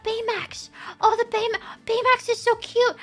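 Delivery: giddy high gushing over cute merchandise; gushing excitement. Retold or imitated. Fan gushing to friend in the store, excited and high. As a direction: squeal about the Baymax goods.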